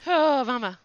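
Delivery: sudden high alarmed yelp; startled. Real, not acted. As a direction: jump at the danger. Sees a dangerous spider.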